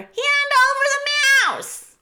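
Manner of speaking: very high, loud rat demand; shrieking hungry rat; shouted. A narrator's reading. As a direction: yell shrilly for your prey. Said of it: "shouted another".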